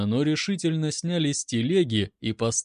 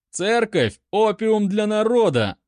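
much louder, higher rally shout; shouted slogan; 7 semitones higher, 5 dB louder than usual. A narrator's reading. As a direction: yell the slogan to the crowd. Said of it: "подхватил другой". (громко выкрикнутый лозунг)

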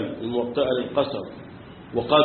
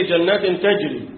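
imitating reciter; 3 semitones higher, slower than usual. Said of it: "زي ما بيقول لك إيه".

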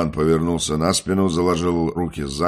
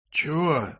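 добродушно; 10 semitones higher, 3 dB quieter than usual. Acted. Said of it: "добродушно спросил Валерка".

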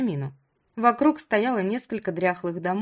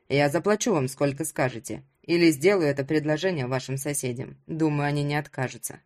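persuasive hero in a lower voice; lowered voice of a man negotiating; lightly voiced Ruslan, bargaining; 6 semitones lower than usual. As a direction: lightly play a man making an offer.

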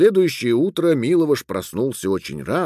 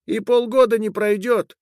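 high, thin little voice; Shignamanush; 9 semitones higher than usual. Acted. Little being refusing to stay with the man, thin and stern. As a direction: pronounce the verdict in a tiny high voice.

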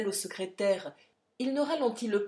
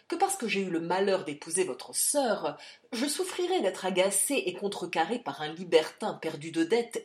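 angry rebuke; 3 dB louder than usual. Acted. General berates Charlie.

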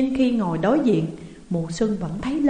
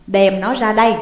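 commanding; 6 dB louder than usual. A narrator's reading. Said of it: "Mai Hoa ra lệnh".

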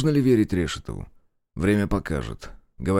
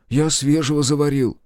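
пухлый хлопотливый интендант; 7 semitones higher, 4 dB louder than usual. Acted. Аверкин упрашивает остаться.

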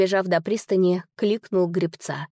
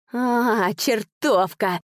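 furious wail; 3 semitones higher, much slower than usual. A narrator's reading. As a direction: curse her with a stretched howl. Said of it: "завопил господин Скьяри". (протяжный злобный вопль, выше голосом)

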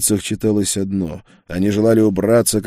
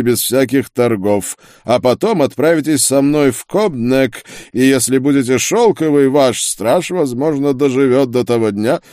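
higher, commanding, laying down terms; imperious duke; 5 semitones higher, 5 dB louder than usual. A narrator's reading. Duke dictates surrender terms to the witch, imperious. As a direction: dictate terms with raised, overbearing voice.

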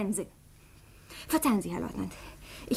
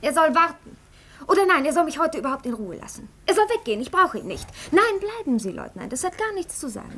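sharp, rising irritation, spikes higher on soll and nein; outburst; 3 semitones higher than usual. Acted. Crippled daughter flaring up at the servant in front of the guest, irritated outburst. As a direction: snap at the servant, then catch yourself. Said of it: "bei ihrem Ausbruch".

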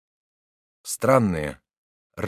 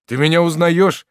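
higher and louder, breaking out with joy; hopeful outburst; 9 semitones higher, 10 dB louder than usual. A narrator's reading. Son cries out to his reviving father in joy. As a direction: cry out, drunk on sudden hope. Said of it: "вырвалось у маршала".

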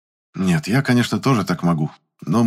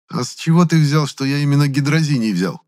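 raised, teasing challenge; mocking question; 7 semitones higher, 3 dB louder than usual. A narrator's reading. Gennady challenging Valentin's claim, mocking. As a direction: ask it with a smirk. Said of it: "насмешливо спросил я".

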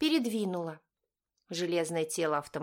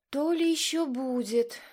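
much higher, louder honeyed taunt; sugary voice; 8 semitones higher, 4 dB louder than usual. A narrator's reading. Ella teasing the nervous driver in a sugary high voice. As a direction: sweeten the threat mockingly. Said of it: "сладким голосом известила Элла".

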